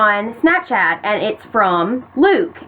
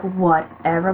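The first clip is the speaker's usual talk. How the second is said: low, soft, done-with-it whatever; fed-up dismissal; 5 semitones lower, 4 dB quieter, slower than usual. Retold or imitated. Texting back to the boy, fed up. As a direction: brush it off quietly, low and weary. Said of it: "I was just done".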